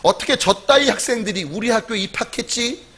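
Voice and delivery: retold anger, lightly acted; angry professor. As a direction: act out an incredulous, cross complaint. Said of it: "화가 나서 이렇게 말했대요".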